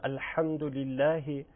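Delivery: Alhamdulillah with Arabic pronunciation; recited with Arabic-style sounds; Arabic accent. Shown as a demonstration. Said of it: "ما که عربی یه مقدار".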